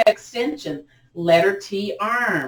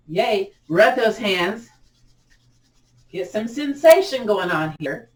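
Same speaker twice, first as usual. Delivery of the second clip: usual speaking voice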